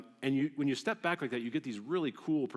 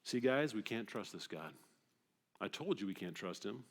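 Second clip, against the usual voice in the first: much softer, low muttered grumble; grumbling conspirator; 5 semitones lower, 8 dB quieter than usual. Retold or imitated. Israelites grumbling against God to each other, muttered. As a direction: whisper doubt to the group. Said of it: "what do they say".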